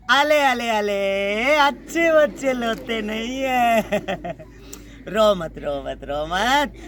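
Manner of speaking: hushing a crying little one; soothing baby talk. Acted. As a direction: coo to calm a crying child. Comforting a crying sapling.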